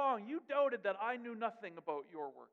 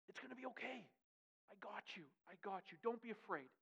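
soft comfort; 9 dB quieter than usual. Acted. Jesus comforting Peter softly.

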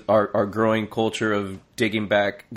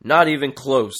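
punchy mock exclamation, a bit louder; mock exclaiming; 4 semitones higher, 5 dB louder than usual. Host reads the tweet's exclamation to friends, mock emphatic. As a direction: read the tweet's exclamation with a bit more push. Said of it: "Exclamation point".

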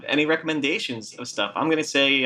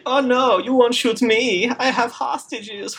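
smug movie villain; 10 semitones higher, slower than usual. Retold or imitated. Mocking the Triple X villain with hammed-up gloating. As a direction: gloat like a cartoon bad guy, slowly. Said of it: "who's like".

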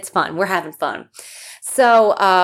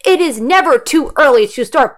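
louder, upbeat ad announcer; sponsor ad read; 4 semitones higher, 4 dB louder than usual. Acted. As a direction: sell it like a radio spot.

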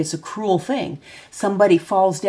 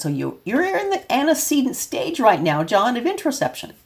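raised, lecturing clinical tone; clinical jargon to John; 7 semitones higher than usual. Shown as a demonstration. Parent to son, the wrong way: stiff clinical lecture. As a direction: talk over his head like a textbook. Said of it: "No, I'm not gonna say that".

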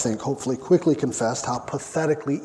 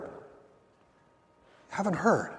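much softer, very slow, dropped to near a hush; hushed repeat; 4 semitones higher, 7 dB quieter, much slower than usual. Acted. Preacher repeating the rebuke to his church, soft and slow. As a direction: let it sink in quietly.

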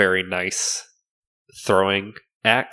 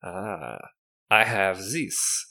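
slow shopkeeper in fake French accent; horrible French accent; 4 dB quieter, much slower than usual. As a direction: present the wares in a bad French accent. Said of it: "With this horrible French accent".

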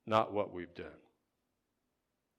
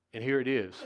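ordinary delivery

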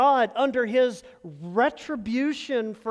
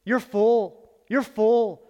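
emphatic reassurance; 5 dB louder, much slower than usual. Retold or imitated. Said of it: "Boaz is saying".

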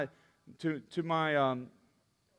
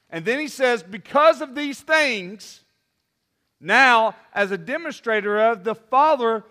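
loud, high, driving sermon delivery; full-force preaching; 6 semitones higher, 9 dB louder than usual. Acted. Pastor preaching to the youth group at full force. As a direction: preach it out over the room, full voice.

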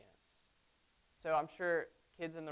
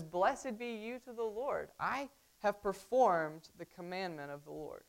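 kinda happy; 3 semitones higher than usual. Retold or imitated. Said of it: "He's kinda happy".

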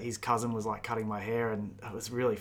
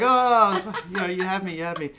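retold laughing relief; 7 semitones higher, 7 dB louder than usual. Retells mates' relief at the prank.

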